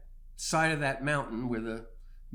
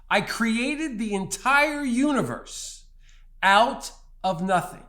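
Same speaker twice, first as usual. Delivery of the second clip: higher, louder and slow, building; booming proclamation; 9 semitones higher, 6 dB louder than usual. Retold or imitated. Preacher voicing God's creation claim: booming slow climax. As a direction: swell up on the entire universe.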